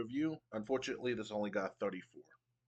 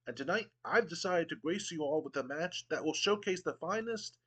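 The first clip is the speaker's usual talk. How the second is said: a hint of a haughty British commissioner, pitched higher; pompous Regal; 4 semitones higher than usual. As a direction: sneer down at the crowd with mock refinement. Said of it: "and Regal goes".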